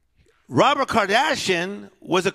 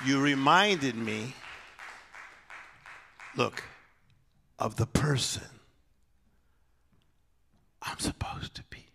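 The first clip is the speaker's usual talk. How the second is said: softer and softer until a bare whisper; fading to a whisper; 4 semitones lower, 8 dB quieter than usual. Shown as a demonstration. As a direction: let the line die down to a whisper. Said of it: "repeats the line softly".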